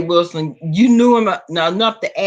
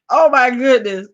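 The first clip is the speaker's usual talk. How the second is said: laughing; 3 dB louder than usual. Real, not acted. Host still laughing hard.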